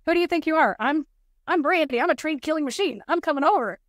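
hammed-up threat to a rude man; retold angry outburst. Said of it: "ready to give him a piece of my mind".

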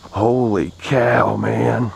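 slow, drawn-out amazement; amazed. Real, not acted. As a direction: stretch it out in wonder. Amazed by the catch.

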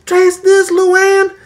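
high, loud, slow gloating hick yell; mock triumphant yell. A man yells to his wife about his invention, triumphant. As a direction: crow it like a proud home cook. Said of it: "somebody at home yelling at his wife".

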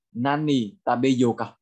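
slow, careful Japanese model phrase; slow language model. Shown as a demonstration. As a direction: draw out each word for learners. Teacher models phrase for learners. (đọc mẫu chậm rãi)

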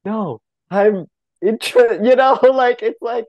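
drawn-out insistent no; arguing for a lifetime to be seen as interesting; mock protest. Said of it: "fighting against is like".

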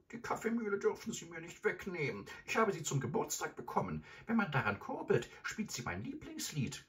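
put-on high-pitched old lady begging; pleading grandmother. Grandmother figure pleading in story.

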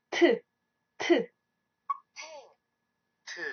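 T said crisply as a model sound; pronunciation demo. Shown as a demonstration. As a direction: model the sound T for learners to repeat. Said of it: "this has the sound T".

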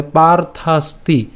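"পার্থাস্তি" slowly, পার্থাস then তি; joining the syllables. Shown as a demonstration. Teacher adding the last syllable, slow careful demo. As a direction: draw out "পার্থাস্তি" part by part. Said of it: "এবং তারপর হচ্ছে".

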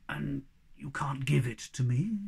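slow hushed goblin plea; whispering hobgoblin. Acted. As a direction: whisper it like a sad old giant.

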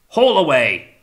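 high, loud hauling call; shouted order. A narrator's reading. Captain setting men hauling, shouted command. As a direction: call it out to the crew. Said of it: "he ordered".

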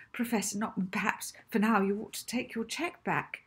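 a meek, hesitant suggestion; nervous offer. Acted. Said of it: "words tumbled nervously".

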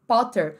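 Potter with a strong popped P; emphatic P. Shown as a demonstration. Teacher showing the meme boy's Potter, strong P. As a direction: hit the P of Potter hard. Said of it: "Ao invés de ser Potter".

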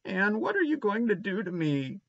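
high, small voiced plea, barely whispered; anxious whisper. A narrator's reading. Boy fearing Anne's punishment, mildly hushed and anxious. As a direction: ask timidly in a high little voice. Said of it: "he whispered".

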